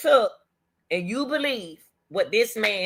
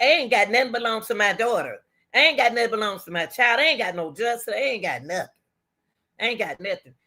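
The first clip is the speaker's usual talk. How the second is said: grieving lament; faster than usual. Real, not acted. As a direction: let the grief drain the voice. Lamenting loss of daughter.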